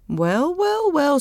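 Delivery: high-pitched, drawn-out marvelling; impressed surprise, pitched high; amazed. Acted. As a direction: marvel at astonishing news. Friend reacts amazed to the news.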